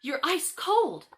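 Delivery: put-on high, slow alarmed girl voice; girl gasping in fright at her friend; gasped alarm. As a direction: gasp it out in shock.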